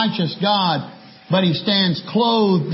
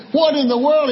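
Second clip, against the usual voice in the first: shocked bartender; 7 semitones higher than usual. Acted. Bartender splashed again in joke.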